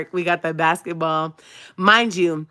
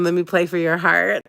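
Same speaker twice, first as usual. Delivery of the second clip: Love and Basketball line. Retold or imitated. Quoting the movie to him, mock crying. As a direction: deliver the movie line, hammed up. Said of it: "So I told him".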